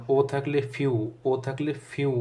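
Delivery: "ফিউ" slowly drawn out on the u; demonstrated u sound. Shown as a demonstration. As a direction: stretch the "উ" glide ending "ফিউ". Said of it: "উ এরকম একটা উচ্চারণ হয়". ("ফিউ"-এর "উ" ধীরে টেনে দেখানো)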